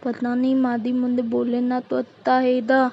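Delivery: put-on babyish lisp in a modest register; lisping bahu talking to herself; lisping daughter-in-law. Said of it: "तोतली बहू".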